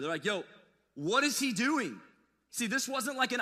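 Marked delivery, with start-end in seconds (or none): 0.3-2.0 drawn-out mock exasperation; mock exasperated. Pharisees to disciples, mock exasperated. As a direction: sigh it out, fed up. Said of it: "like, exasperated".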